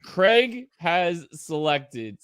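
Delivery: very slow, formal announcement; neutral announcer voice. Pretend. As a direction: draw out the official announcement. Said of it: "read them all in a neutral voice".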